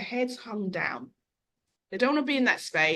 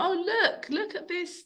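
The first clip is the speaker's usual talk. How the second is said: lightly voiced mum, higher pitched; mum to her daughter; 9 semitones higher than usual. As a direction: point it out to a child in a higher voice. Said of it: "she said to the daughter".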